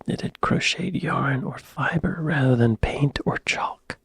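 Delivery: whisper. Real, not acted. Reading definition under breath.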